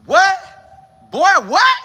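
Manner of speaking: high, loud hyped-up "what?"; crowing like you just took your shirt off in the weight room; cocky excited shout; hyped flex. Retold or imitated. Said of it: "you like".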